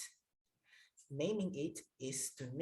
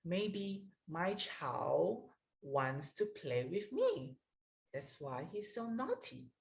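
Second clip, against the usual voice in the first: compassionate reflection; slower than usual. Shown as a demonstration. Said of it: "I can say that".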